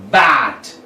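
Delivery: "bat" drawn out as one syllable; one stretch. Shown as a demonstration. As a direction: stretch "bat" in a single unbroken sound. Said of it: "one stretch of pronunciation".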